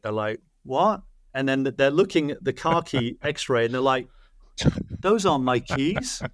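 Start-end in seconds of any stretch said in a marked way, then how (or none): 0.6-1.0 a mild, higher-pitched groggy "huh?". Retold or imitated. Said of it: "the people are out of it". 5.0-6.2 slow, higher, lightly imitated groggy patient. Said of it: "the people are out of it".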